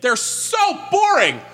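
high, slow "so boring" whine; exaggerated bored drawl. Real, not acted. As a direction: stretch it out, bored to death. Mocking Dick Tracy comics.

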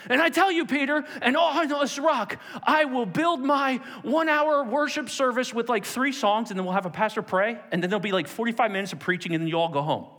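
sarcastic misquote. Retold or imitated. Preacher mocking churchgoers' idea of church, sarcastic. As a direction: send up the routine service.

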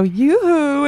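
sing-song goblin lure call. Pretend. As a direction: coax them in like a goblin. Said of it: "in a goblin voice".

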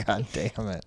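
P=A; quoting the toddler. Retold or imitated. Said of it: "running around saying".

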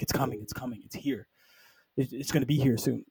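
soft, fading mock last words; dying warning. Nova's last words to the Avengers, soft dying warning. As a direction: murmur it like an understated dying warning. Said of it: "these last words of".

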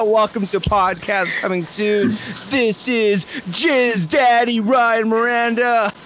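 slow, drawn-out wrestler announcement; wrestling gimmick. Acted. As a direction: announce yourself like a ring entrance. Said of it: "following a, like, wrestling gimmick".

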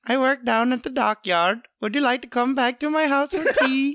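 lightly put-on Indian accent. Dock worker inviting someone to tea, Indian accent. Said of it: "He sounds a little Indian".

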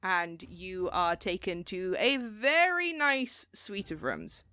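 ordinary talk, nothing marked

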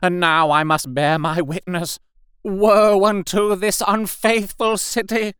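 high, ringing cries of doom, swelling on each woe; loud prophetic proclamation. A narrator's reading. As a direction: wail it like a fanatical prophet. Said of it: "in a tone that must have reached the pit".

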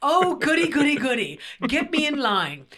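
put-on high, loud, childlike delight; hammed-up glee. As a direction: gloat with mock giddy excitement. Gleeful at prospect of apology.

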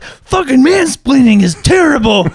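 high, slow, exaggerated agreement; mock sincere. To Heather, a high slow hammed-up agreement. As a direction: overdo the sympathy, laughing through it.

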